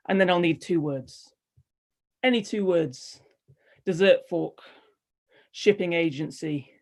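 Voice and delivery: measured, deliberate recital in short falling phrases; poetry reading. Acted. Poet pleading for just one word, measured spoken-verse delivery. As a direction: let each phrase land, then pause.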